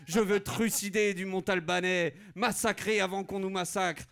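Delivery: loud bloodthirsty declaration; hammed-up battle lust; mock war cry. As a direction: bark it like a warlord. Noble wants war.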